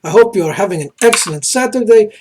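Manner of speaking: a light, put-on Croatian accent that drifts toward Russian; mock Croatian accent that keeps slipping; the speaker's Croatian accent. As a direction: chess commentary in a half-held Croatian accent. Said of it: "I'm wearing this accent".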